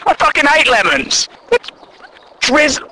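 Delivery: ordinary talk, nothing marked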